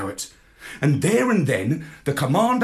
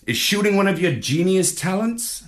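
parrot voice; 6 semitones higher than usual. A narrator's reading. Parrot questions.

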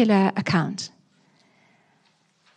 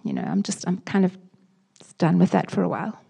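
mild cynical shrug; 3 semitones lower, faster than usual. Retold or imitated. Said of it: "And cynicism".

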